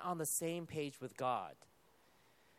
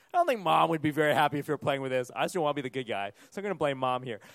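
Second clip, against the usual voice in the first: shifting blame; 3 semitones lower, 6 dB louder, faster than usual. Acted. Parent blames Mom to child.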